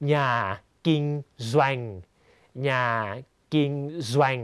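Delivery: "แซวง" as "สะ" and "แวง" run together; blended syllable demo. Shown as a demonstration. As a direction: say "แซวง" as one syllable, a z sound gliding into "waeng". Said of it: "ก็คือสะแวงแล้วมารวมกัน".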